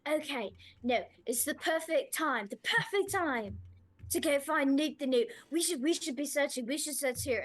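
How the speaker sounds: high, loud, trembling eagerness; shaky and excited. Retold or imitated. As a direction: babble it out, jittery with caffeine. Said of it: "shaky and excited and being like".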